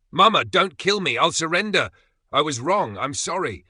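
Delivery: high, very loud pleading screams; desperate scream. A narrator's reading. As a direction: beg for your life, voice breaking. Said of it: "His voice breaks into a desperate scream".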